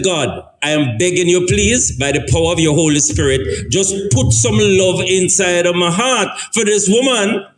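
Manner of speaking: high, begging plea to God; pleading prayer. Retold or imitated. Teen pleading with God to love his mother, begging high. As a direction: beg like a desperate teen at prayer.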